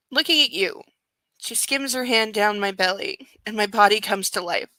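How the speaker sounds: steady, even audiobook read; story narration. A narrator's reading. Reads the novel aloud.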